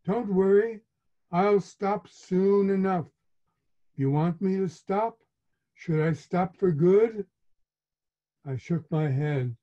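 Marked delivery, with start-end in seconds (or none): 0.0-7.3 higher, wounded mother voice; a hurt mother threatening to stop for good; guilt-tripping mother. Retold or imitated. Mother's wounded reply to son.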